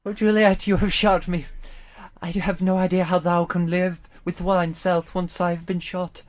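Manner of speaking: lightly mock-tragic dying Romeo; hint of a melodramatic Shakespeare actor; Shakespearean. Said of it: "So Shakespearean style".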